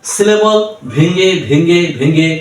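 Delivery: spaced-out words; slow down, chunk by chunk; slow, segmented delivery. Shown as a demonstration. Teacher demonstrates breaking up syllables. (ধীরে, থেমে থেমে)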